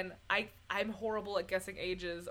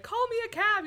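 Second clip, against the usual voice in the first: loud quote; 11 semitones higher, 7 dB louder than usual. Retold or imitated. Acted movie line.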